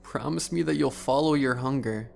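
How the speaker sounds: soft creepy glutton. Acted. Gluttonous man character voice.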